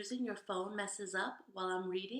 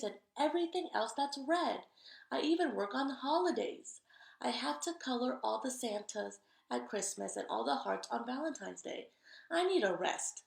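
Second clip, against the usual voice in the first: higher, louder overworked crayon complaining; tired red crayon; 4 semitones higher, 5 dB louder than usual. Acted. Red Crayon writes to Duncan, higher and louder complaining. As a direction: whine like a worn-out crayon begging for rest.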